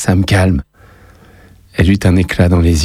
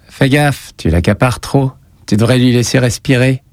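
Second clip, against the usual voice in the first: falsely light; 5 semitones higher than usual. Acted. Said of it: "faussement léger".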